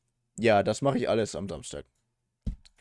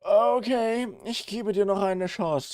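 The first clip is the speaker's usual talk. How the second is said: mock stern warning; 12 semitones higher, 5 dB louder, slower than usual. Threatening the TTS bot.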